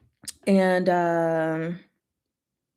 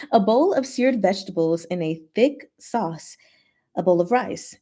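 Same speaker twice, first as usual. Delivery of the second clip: story narration. A narrator's reading. Rereads narration after slip.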